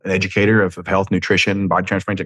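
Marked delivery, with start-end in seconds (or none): 1.7-2.2 body transformation in a Southern country twang, words run together. Shown as a demonstration. Vlogger slipping into his country twang. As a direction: slur body transformation Tennessee style. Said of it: "that was country slang twang for body transformation".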